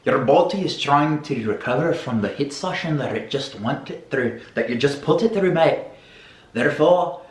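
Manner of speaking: put-on English accent; hammed-up mock English accent, peppered with mate. Fitness host explains the afterburn in plain English, mock English accent. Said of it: "when you do the English accent".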